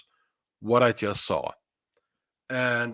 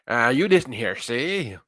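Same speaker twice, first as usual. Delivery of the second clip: put-on old movie gangster. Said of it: "When they talk like that?".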